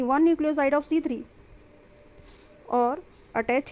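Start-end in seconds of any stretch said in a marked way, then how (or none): 0.0-1.2 slow and measured; dictating notes. Shown as a demonstration. Teacher dictating a definition to her class, slow and measured. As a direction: give each word time to be written.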